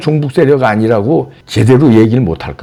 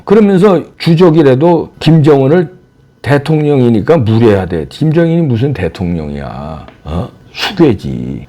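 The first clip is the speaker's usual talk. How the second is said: ordinary talk, nothing marked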